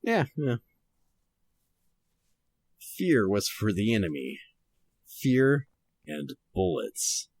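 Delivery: noir detective. Shown as a demonstration. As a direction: read it like an old detective radio drama. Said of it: "going to try to read this kind of noir-ish".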